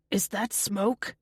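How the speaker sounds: slow, tentative question; puzzled and a little wary; confused. A narrator's reading. Jason smelling something first, confused. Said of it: "he says, confused".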